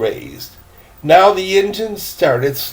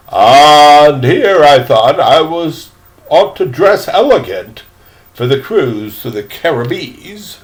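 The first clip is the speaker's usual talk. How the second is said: put-on old gentleman; 5 dB louder than usual. Old gentleman laments his dress.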